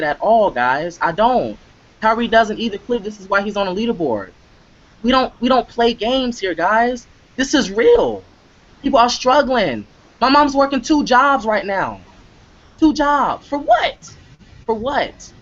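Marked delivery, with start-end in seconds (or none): 5.0-15.3 rising passion as he talks about his mom; impassioned outburst. Real, not acted. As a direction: voice pitched way up, pleading hard. Emotional outburst about struggling mom.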